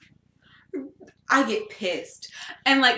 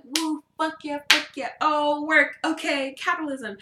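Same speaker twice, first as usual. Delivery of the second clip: higher, playful hype-up; hype dancing cheer; 6 semitones higher than usual. Retold or imitated. Dancing while getting ready for work, hyped. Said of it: "I'm dancing, and I'm like".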